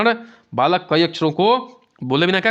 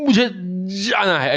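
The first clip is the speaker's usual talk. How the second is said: blocked speech demo; 3 semitones higher, slower than usual. Shown as a demonstration. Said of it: "जैसे बोलेगा".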